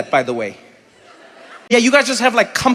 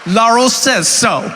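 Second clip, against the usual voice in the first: mock bossy shout; 5 semitones higher, slower than usual. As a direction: yell like a self-appointed ruler. Ordering nude swimmers.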